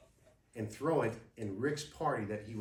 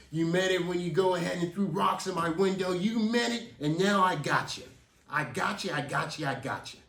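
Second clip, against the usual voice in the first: mounting anger, then fading gloat; 4 semitones higher, 5 dB louder than usual. Retold or imitated. Rick refusing mercy.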